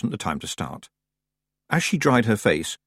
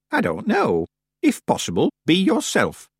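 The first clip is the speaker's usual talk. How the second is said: put-on old witch voice; 9 semitones higher than usual. A narrator's reading. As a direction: speak as a stiff old witch. Old witch Miss Treason speaks.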